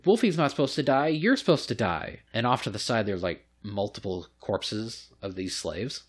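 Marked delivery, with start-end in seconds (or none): 0.0-2.2 put-on higher-pitched protesting child; bratty noble kid. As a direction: imitate a kid whining that it's unfair. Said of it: "And the kid's like".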